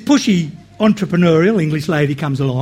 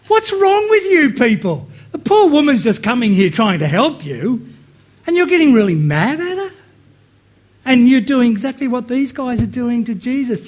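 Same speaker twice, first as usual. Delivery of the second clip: higher, incredulous, half-laughing rebuke; exasperated outburst; 5 semitones higher than usual. Retold or imitated. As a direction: scold them in disbelief. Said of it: "And you go".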